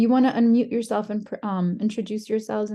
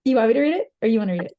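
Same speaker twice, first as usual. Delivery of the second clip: raised voice, rising question; repeating the offer louder over the call; 6 dB louder, much faster than usual. Real, not acted. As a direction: say it again louder so he hears.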